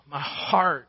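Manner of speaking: sighed "my heart", falling. Real, not acted. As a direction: let a sigh carry into the words. Sighing over leaving daughter.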